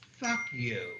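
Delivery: defiant retold curse. Shopper retelling a curse at the store manager, defiant.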